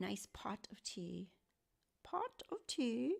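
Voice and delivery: bad put-on British accent, soft and sing-song. Cooking chicken for the pups, the speaker tries out a bad British accent. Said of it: "my British accent is awful".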